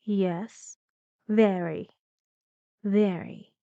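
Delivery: "very" stressed on VE, then falling; teacher modelling falling "Yes, very"; falling intonation. Shown as a demonstration. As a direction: drop the tune on each "very".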